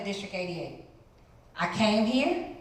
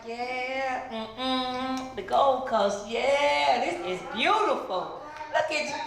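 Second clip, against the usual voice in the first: excited gushing; 5 semitones higher, slower than usual. Retold or imitated. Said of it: "I'm like".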